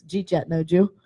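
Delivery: Jeet yet, no Jew run together fast as one chunk; clipped Yinzer contraction of Jeet yet, no Jew; Pittsburghese slurred. Shown as a demonstration. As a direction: mash did you eat yet into Jeet yet. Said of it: "And it's".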